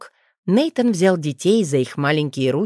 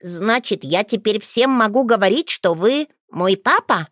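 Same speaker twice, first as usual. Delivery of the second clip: put-on lightly higher boy's voice, not quite believing; a boy afraid to trust the news; hint of a wary child; hesitant child; 4 semitones higher than usual. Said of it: "будто боялся до конца поверить".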